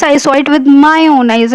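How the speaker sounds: insistent stress on "my own"; emphasizing. Shown as a demonstration. Teacher acting an emphatic witness, stress on my own. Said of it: "It means it's emphasizing".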